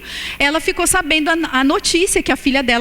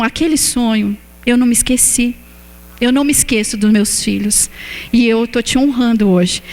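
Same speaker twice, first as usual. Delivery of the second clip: voice of God. Retold or imitated. Preacher retells God reminding her of her childhood wish, lightly lowered. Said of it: "E Ele falou".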